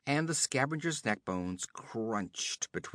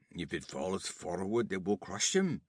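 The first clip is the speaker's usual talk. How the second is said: objecting; 3 semitones lower than usual. Acted. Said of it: "objected Jebal".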